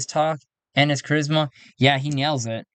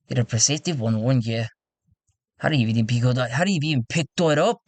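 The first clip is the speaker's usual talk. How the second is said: put-on tentative English character accent; lightly put-on English accent, wobbling a little; old English accent; faster than usual. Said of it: "Get an old accent is what he is".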